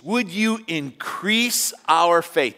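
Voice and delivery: slow, drawn-out plea to Jesus; pleading disciples. Retold or imitated. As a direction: beg for faith, slowly. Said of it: "The disciples asking Jesus".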